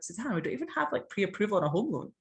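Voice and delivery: husband reining in an impulsive wife; imitating husband. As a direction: play the sensible husband, amused. Voicing husband's objection.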